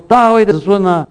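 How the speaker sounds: insistent cry of a blind beggar. Retold or imitated. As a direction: call over the crowd. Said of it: "他却越发大声喊着说：".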